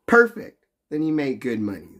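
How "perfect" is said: squeaky high and loud; high excited squeal. Shown as a demonstration. Exaggerated high approval.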